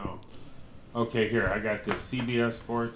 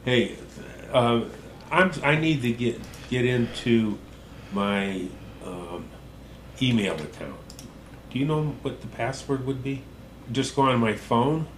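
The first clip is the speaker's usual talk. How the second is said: shouting into a phone; 3 dB louder than usual. Real, not acted. Shouting over bad phone line.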